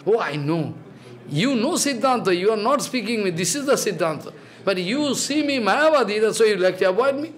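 gently humble, slightly hushed; meek and modest, not pushing. Shown as a demonstration. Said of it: "humble attitude".

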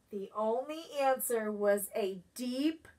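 plain reading voice

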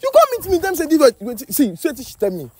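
high-pitched, exasperated demand for an explanation; agitated confusion. Acted. Host confronts pair over two different stories, agitated.

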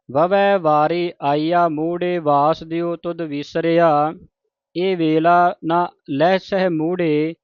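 slow, deliberate reading of sacred verse; measured scripture recitation. Shown as a demonstration. Teacher reads Gurbani for congregation to learn, measured recitation. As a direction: recite each word distinctly, resting between phrases.

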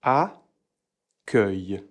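accueil said slowly as akœj; slow model word. Shown as a demonstration. Teacher modelling accueil slowly for students. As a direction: accueil drawn out for the learner. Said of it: "Premier mot".

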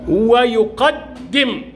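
ويقدم drawn out very slowly, doubled د held long; shadda demo. Shown as a demonstration. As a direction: stretch ويقدم, lean on the doubled د. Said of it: "كلمة فيها حرف مشدد".

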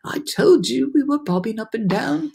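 high I-told-you-so voice; storybook ladybug insisting; vindicated ladybug. A narrator's reading. Ladybug proved right.

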